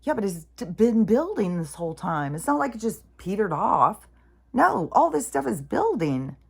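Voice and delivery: telling mom it's all building up, urgent and loud; insistent to mom. Retold or imitated. To her mom, insisting the crash is coming, loud and high. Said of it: "to my mom, it's like".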